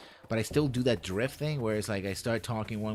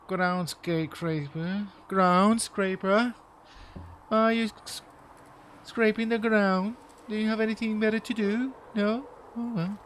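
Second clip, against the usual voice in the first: high, drawn-out heckling, mostly loud; Jesse Cox; 11 semitones higher, 6 dB louder, slower than usual. Acted. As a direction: jeer slowly in a raised, put-on voice. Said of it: "That was my inner Jesse talking".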